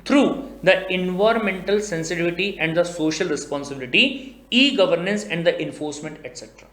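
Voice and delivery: slow, measured reading of the act text; deliberate legal dictation. Acted. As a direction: read it out word by word like a statute. Reading the mandate aloud.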